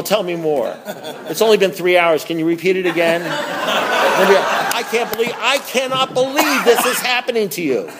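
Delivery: mock gushing sympathy with laughs; lightly hammed-up coddling sponsor; bad sponsor. Sponsor coddling a whining newcomer, mild mock sympathy. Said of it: "here's a bad sponsor".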